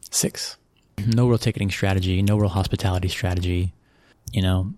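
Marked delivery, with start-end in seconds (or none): 0.1-0.6 whispered emphasis. Real, not acted. Telling an interviewer how few sponsors, in a whisper. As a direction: drop to a hushed whisper on the number.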